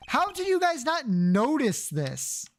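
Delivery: can't believe they missed it, laughing; real amused disbelief; incredulous laughing. Real, not acted. Streamer mocks characters missing tunnel.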